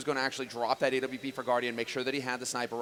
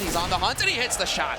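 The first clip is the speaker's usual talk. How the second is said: building to a loud high shout; esports caster; 6 semitones higher, 7 dB louder than usual. Acted. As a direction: scream the kill call. Live play-by-play, kill shot.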